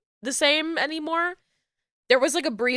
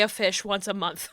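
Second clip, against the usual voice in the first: laughing; 4 dB quieter than usual. Real, not acted. Laughing at own quirk.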